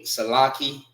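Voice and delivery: Salaki ending in a plain "kee"; common mispronunciation. Shown as a demonstration. Teacher showing students how some people say it, common mispronunciation. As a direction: say "Salaki" with a hard k, no final syllable. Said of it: "They may say".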